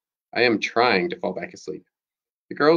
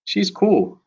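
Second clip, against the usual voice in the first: unconvincing; 11 semitones higher than usual. A narrator's reading. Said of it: "rather unconvincingly".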